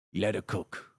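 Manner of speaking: low British hard-man voice; gruff, understated mock-British; Jason Statham. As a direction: say it deep and soft like a London tough guy. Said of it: "like, Jason Statham saying".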